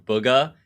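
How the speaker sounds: Booga with a short "oo" as in book; first vowel of Booga like the one in good; old pronunciation. Shown as a demonstration. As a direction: say Booga as "BUUG-uh". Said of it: "I used to say".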